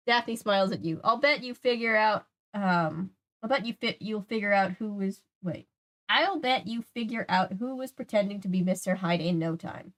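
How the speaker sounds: lightly voiced storybook read with restarts; story narration. A narrator's reading. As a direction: read out an encouraging character line. Reads story, restarting the line.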